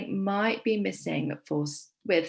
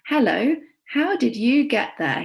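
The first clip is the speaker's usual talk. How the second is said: character voice; 4 semitones higher, 7 dB louder than usual. Acted. Teacher voices character's greeting.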